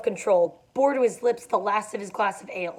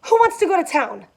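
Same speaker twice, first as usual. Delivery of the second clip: higher, louder insistent demand; 8 semitones higher, 6 dB louder than usual. A narrator's reading. Daisy to everyone, demanding insistently. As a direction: press the room, WANTS leaned on. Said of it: "demanded Daisy insistently".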